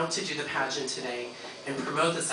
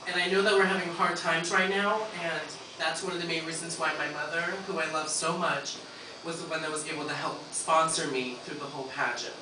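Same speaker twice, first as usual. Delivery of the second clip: emotional; 6 dB quieter than usual. Real, not acted. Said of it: "Take a deep breath".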